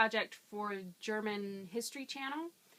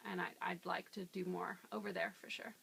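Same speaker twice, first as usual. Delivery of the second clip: whispered; 2 semitones lower, 7 dB quieter than usual. Real, not acted. Trailing off.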